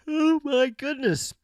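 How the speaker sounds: high, slow dismay; exasperated surprise. Real, not acted. Streamer sees a crowd of mobs in her game, exasperated surprise. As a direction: drag it out in disbelief.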